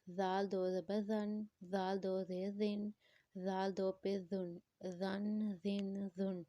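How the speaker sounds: زال and زن with a soft TH as in "this"; soft dhal. Shown as a demonstration. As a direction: soften each زن, no whistle in it. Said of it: "نرمی سے پڑھیں گے".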